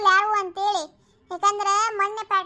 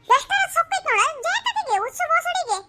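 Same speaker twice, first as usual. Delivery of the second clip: scornful rant; 8 semitones higher than usual. Acted. Owner rants after the quarrel.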